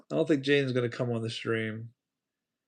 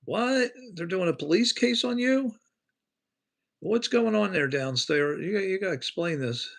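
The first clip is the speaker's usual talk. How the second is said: shocked disbelief; 6 semitones higher than usual. Real, not acted. Reacting to a shocking chat message.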